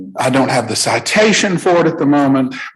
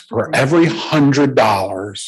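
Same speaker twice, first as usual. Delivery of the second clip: slow, measured explanation broken by pauses; deliberately slow. Real, not acted. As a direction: explain it slowly, phrase by phrase, for the interpreter. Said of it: "I will talk slow".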